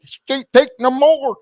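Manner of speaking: high, loud attempt at a Scottish accent; Scotty. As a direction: cry it out in a hammed-up Scottish brogue. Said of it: "I sound like Scotty".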